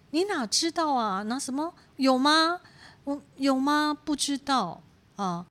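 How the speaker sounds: mock high, baffled protest; puzzled denial. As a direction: act out someone caught off guard. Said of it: "很困惑、很疑惑". (困惑地高声反问)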